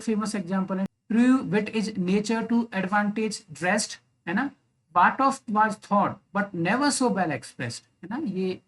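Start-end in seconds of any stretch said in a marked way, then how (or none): 1.1-4.0 slow, measured reading of a verse line; poem recital. Shown as a demonstration. Reciting Pope's famous couplet. 5.0-7.8 slow, measured reading of a verse line; poem recital. Shown as a demonstration. Reciting Pope's famous couplet.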